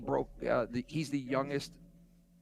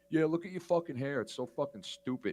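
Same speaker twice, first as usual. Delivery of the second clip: mock insult; 4 semitones higher than usual. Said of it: "he was like".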